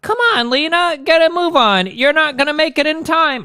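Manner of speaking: bad English accent, high and urgent; high-pitched amateur English accent. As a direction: hurry her along in a hammed-up English accent. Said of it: "I can't do the English accent".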